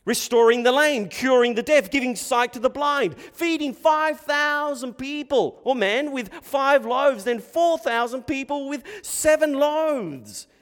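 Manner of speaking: high, loud, building sermon delivery; full-force preaching. Real, not acted. Preacher listing miracles to the congregation, full-force preaching.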